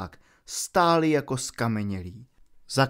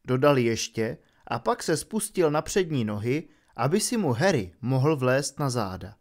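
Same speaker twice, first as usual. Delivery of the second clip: usual speaking voice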